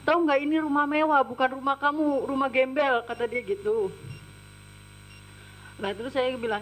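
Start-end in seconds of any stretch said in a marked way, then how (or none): 0.0-3.0 imitating a scolding employer; mild mock berating; retold abusive scolding. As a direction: retell the boss's contemptuous tirade. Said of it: "maki-maki saya dengan perkataan kasar".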